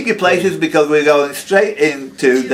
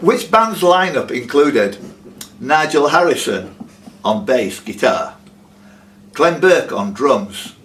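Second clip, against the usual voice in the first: quiz question read; 2 semitones lower, slower than usual. Acted. Quizmaster reads quiz question.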